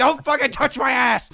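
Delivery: high, loud drawn-out mock yell; hammed-up indignant shout; outraged cat. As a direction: imitate a furious cat, each word stretched. Voicing the angry cat.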